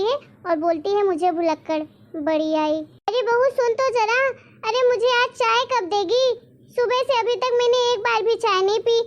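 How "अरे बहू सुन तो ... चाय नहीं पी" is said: higher, whiny call for tea from the bahu; a grumbling granny demanding her chai; nagging old mother-in-law. Acted. (सास की ऊँची, शिकायती आवाज़)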